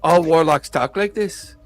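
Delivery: warlock's put-on Irish accent. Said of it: "that insufferable Irish accent".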